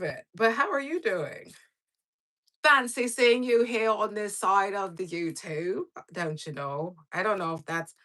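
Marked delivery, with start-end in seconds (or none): 2.6-7.0 put-on a loose, made-up posh-ish accent on a livestream greeting; vague put-on accent. Greeting a viewer on her livestream in a vague put-on accent. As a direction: toss off the greeting in a half-formed, made-up accent. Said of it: "I don't even know what type of accent that was".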